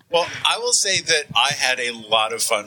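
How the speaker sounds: tinny broken mic; tin can phone. Real, not acted. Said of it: "sounds like he's talking through a tin can".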